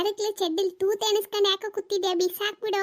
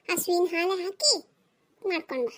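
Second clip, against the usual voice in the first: a strained patient order, sinking lower; forced calm; 4 semitones lower than usual. Acted. Husband forces calm, not angry.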